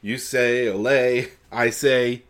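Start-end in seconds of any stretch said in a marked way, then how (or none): 0.7-1.3 loud, raised mock cheer; echoed cheer. Co-host echoing Spanish passengers' yell, playful cheer. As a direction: call it out like the passengers.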